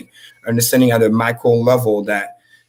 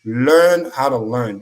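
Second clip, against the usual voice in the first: "Learn how to learn" said slowly, each word weighted; slow emphatic maxim; much slower than usual. Shown as a demonstration. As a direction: drive the motto home word by word. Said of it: "Let me say it again".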